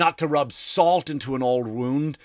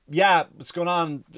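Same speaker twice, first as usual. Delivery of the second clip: casual bluff; 3 semitones higher than usual. Retold or imitated. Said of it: "I do that because".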